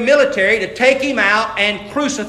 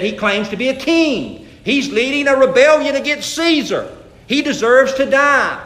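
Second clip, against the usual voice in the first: mock accusers, rising higher as they go; accusation; 5 semitones higher, 3 dB louder than usual. Accusers report Jesus to the Roman authorities, accusing. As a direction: press the charge, pitch climbing.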